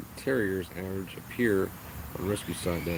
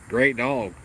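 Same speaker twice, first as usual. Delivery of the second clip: sarcastic high; 6 dB louder than usual. Real, not acted. Sudden high emphasis.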